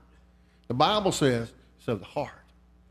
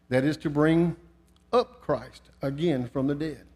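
scripture reading. Acted. Reads scripture in sermon.

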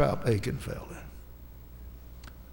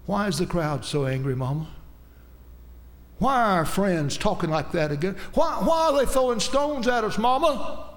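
put-on pleading child's voice, pitch climbing high near the end; child pleading rising to a cry; 4 semitones higher than usual. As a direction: cry out like a scared little girl to her mother. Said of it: "little girls holding around the legs of Mama".

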